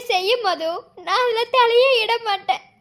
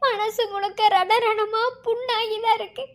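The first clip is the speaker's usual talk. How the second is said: tearful. Acted. Heartbroken lover pleading.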